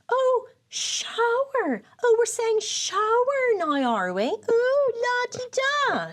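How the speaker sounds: high, drawn-out mock-snooty jeering; mocking the accent. Family back home mocking her changed accent, jeering. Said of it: "insulting my accent".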